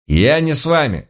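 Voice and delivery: high-pitched objection; quick warning refusal. A narrator's reading. Citizen warns the group he is staying behind, high protest. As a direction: back out at once in a high voice. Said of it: "сразу предупредил гражданин Груздев".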